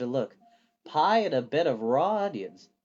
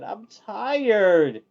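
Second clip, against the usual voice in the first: louder, higher sleepy grumble; grumpy fire demon; 6 semitones higher, 8 dB louder than usual. A narrator's reading. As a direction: whine it like a sulky demon. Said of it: "Calcifer grunted".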